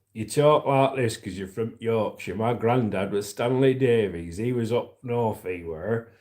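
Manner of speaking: a hint of northern Yorkshire accent. Shown as a demonstration. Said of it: "So if you're from Yorkshire up north".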